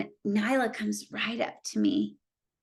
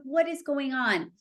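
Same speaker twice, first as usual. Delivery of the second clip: miffed bafflement; 5 semitones higher, slower than usual. Retold or imitated. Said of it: "I was kind of pissed".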